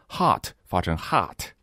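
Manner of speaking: 第二个hot发成汉语的哈; hot said like Chinese 哈; wrong Chinese ha. Shown as a demonstration. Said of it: "就是中国汉语里那个哈". (把hot错读成汉语“哈”的音)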